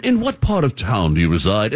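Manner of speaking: mock formal, old-time propriety; old-fashioned formal speaker. Host mocking early nineteen hundreds speech, stilted and formal. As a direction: put on a stiff nineteen-hundreds manner. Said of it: "Unless you were, like, in the nineteen hundreds".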